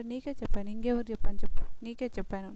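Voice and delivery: mildly hot-tempered retort in a retold fight; retold angry reply. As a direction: snap back that you told her already. Nookaraju snapping back in quarrel.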